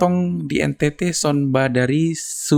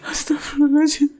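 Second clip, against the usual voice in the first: laughing; 6 semitones higher than usual. Real, not acted. Still laughing.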